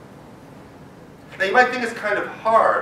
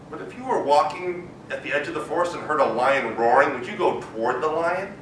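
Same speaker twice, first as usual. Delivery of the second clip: ordinary delivery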